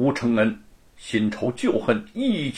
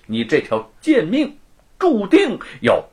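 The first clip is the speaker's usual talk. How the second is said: vicious curse; 3 semitones higher than usual. Acted. Luo curses Wu to a lonely life, spiteful. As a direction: curse him coldly. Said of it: "恶毒地诅咒着".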